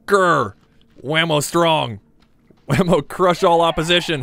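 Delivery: growl, then caveman-style boasting; playful brute war cry in third person; mock aggressive mode. Player psyching himself up to face monsters, mock aggressive. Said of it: "I'm getting into my aggressive mode".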